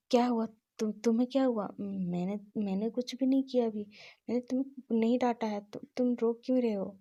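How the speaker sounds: urgent, anxious calling out; alarmed loud questioning. Acted. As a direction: press him anxiously why he's crying. Wang asks crying Wing, alarmed.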